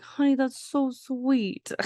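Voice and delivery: high, slow, sugary thank-you; mock sweet wife. Wife gushing to husband over the last candy, high and slow.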